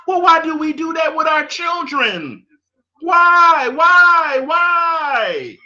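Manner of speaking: real exasperation, shouted; exasperated shout. Real, not acted. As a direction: demand an answer, shouting the whys. Ranting at parents.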